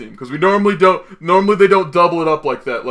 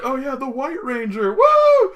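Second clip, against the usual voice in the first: hyped announcement; 9 semitones higher than usual. Retold or imitated. Retelling cast announcing counterparts.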